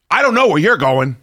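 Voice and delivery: tantrum building into a high-pitched scream; tantruming monster scream. Real, not acted. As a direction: blow up in a screaming rant. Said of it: "that was a tantruming monster right there".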